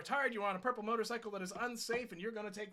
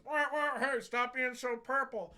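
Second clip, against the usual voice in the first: loud, higher honking yell, drawn out slowly; hammed-up road rage shout; mock angry driver; 4 semitones higher, 6 dB louder, slower than usual. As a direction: blare at him like an impatient car behind. The car behind him goes.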